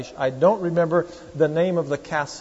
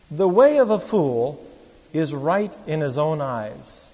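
scripture reading; 4 dB louder, slower than usual. Real, not acted.

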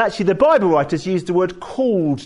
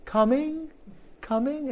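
high loud call that fades away down the hall; 11 semitones higher, 3 dB louder than usual. Retold or imitated. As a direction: call up the stairs, the repeats fading. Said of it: "call out".

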